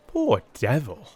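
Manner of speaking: slow, lightly pitying sigh of sympathy; commiserating. A narrator's reading. Stamford pities Watson's misfortunes, gently commiserating. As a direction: say it with mild pity for a friend. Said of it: "he said commiseratingly".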